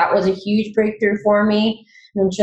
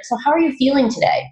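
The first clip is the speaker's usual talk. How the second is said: imitating a coach, pitched higher and a bit quicker; heart coach; 8 semitones higher, faster than usual. Imitating her heart coach asking how she feels, higher and quicker. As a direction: lightly mimic the coach's cheerful opening question. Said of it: "she was like".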